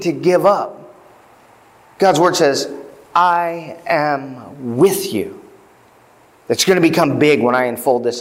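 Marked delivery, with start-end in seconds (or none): 3.1-5.4 slow, soft and close; tender reassurance. Acted. God comforting the rejected witness, slow and soft. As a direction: let it land gently, like a promise to a scared friend.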